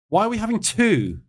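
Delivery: high-pitched puzzled question; baffled. Real, not acted. Trader puzzled by a second rate announcement, baffled.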